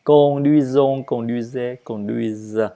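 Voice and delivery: "Conduisons, conduisez, conduisent" recited evenly, stepping down; even stress. Shown as a demonstration. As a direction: give each syllable of "Conduisons, conduisez, conduisent" equal weight. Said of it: "C'est, c'est la même chose".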